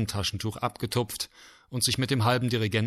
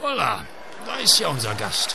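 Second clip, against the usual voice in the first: freudig gerufen, etwas höher; überrascht begrüßt; ausgerufen; 5 semitones higher, 3 dB louder than usual. A narrator's reading. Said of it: "rief der Dirigent". (Dirigent begrüßt die Flöte, freudig rufend)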